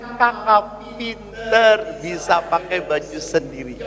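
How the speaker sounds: slow, gentle praise of a proud mother; fond praise to a child. Retold or imitated. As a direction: praise the child slowly and tenderly. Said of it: "Saya puji". (ibu memuji anaknya dengan lembut dan pelan)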